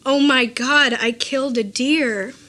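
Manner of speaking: lightly imitating a Chinese accent; a hint of a Chinese accent, startled. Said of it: "in his thick Chinese accent".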